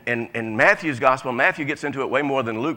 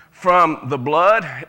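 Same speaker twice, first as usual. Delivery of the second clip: slow emphatic reading; 6 dB louder, much slower than usual. Real, not acted. Reading scripture slowly.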